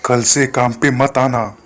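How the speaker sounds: lightly voiced stern landlord scolding a worker; a hint of a bossy landlord talking down; mild landlord telling off his labourer; rude landlord. Landlord dismisses Arjun.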